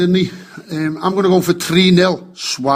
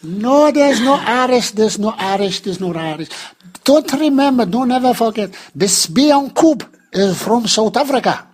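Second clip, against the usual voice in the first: Nelson impression. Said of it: "Can you hear a little Irish twang there?".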